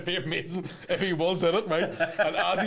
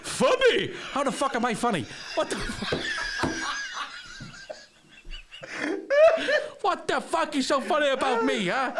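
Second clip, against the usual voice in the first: high, brash New York tough guy; Joe Pesci impression; 11 semitones higher than usual. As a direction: snarl like a wiseguy, pitched up. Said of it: "Joe Pesci in The Goonies".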